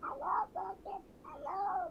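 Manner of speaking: high, slow, silly little voice. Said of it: "do the voice".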